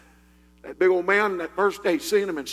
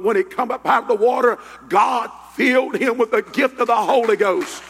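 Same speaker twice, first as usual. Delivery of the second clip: forceful Pentecostal preacher delivery; fervent preaching; 4 semitones higher, 4 dB louder than usual. Real, not acted. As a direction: preach it out with mounting fervour.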